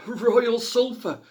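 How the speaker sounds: high, slow, breathless timid ask; gasped plea. A narrator's reading. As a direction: force the words out in fear. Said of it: "she gasped".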